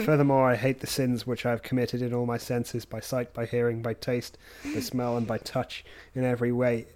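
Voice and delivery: prayer recitation. Acted. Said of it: "join me in prayer".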